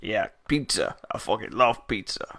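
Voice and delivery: lightly put-on New York accent; understated New York caricature; New York stereotype. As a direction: play a stereotypical New Yorker. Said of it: "Trying to think of just stereotypes now".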